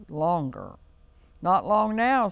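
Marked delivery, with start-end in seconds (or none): 1.4-2.3 high, loud little squeal; pitched up and punched out, squirrel-style. A narrator's reading. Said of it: "squealed the squirrel".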